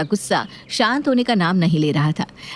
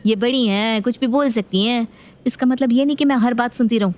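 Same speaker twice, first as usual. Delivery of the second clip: pitched higher, defiant retort; daughter-in-law; 6 semitones higher than usual. Acted. Daughter-in-law retorting to mother-in-law, higher and defiant. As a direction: throw it back at her.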